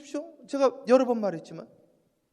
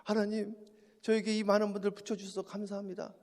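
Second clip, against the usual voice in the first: thankful prayer; 5 dB quieter than usual. Retold or imitated. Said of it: "감사 기도가 나오는데".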